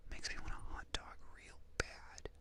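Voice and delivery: very soft, slow whispered impression; hushed ASMR impersonation; Jennifer Coolidge. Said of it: "I need to, like, do it softer".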